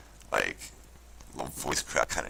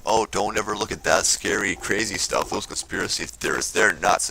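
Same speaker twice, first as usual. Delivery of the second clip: mocking warning voice; 4 semitones higher, 4 dB louder than usual.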